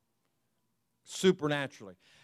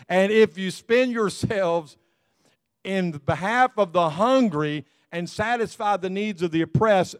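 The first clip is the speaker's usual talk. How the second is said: slow, louder, rising preacher's reading; scripture reading; 3 dB louder than usual. Acted. Pastor reads Isaiah to his congregation, proclaiming slowly.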